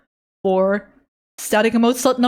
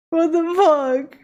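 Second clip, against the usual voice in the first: high, slow, teary what the fuck; real overwhelmed surprise; stunned disbelief; 6 semitones higher, slower than usual. Real, not acted. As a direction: gasp it out in shock. Overwhelmed by fan art.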